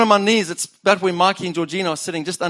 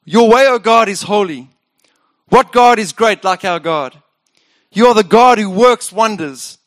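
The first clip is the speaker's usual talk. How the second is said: louder, ringing scripture praise; triumphant proclamation; 5 dB louder than usual. Acted. Pastor reading the uplifting psalm, triumphant. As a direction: proclaim it like a victory.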